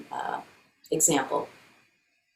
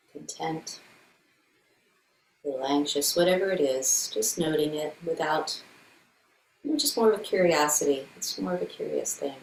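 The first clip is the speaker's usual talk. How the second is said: calm meditation guide with long silences; guided meditation. Acted. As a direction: gently lead a body check-in, leaving room between phrases. Leads a meditation.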